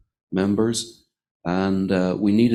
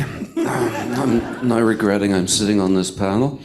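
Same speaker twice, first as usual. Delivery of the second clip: laughing; 4 dB louder than usual. Real, not acted. Overwhelmed by a hard question.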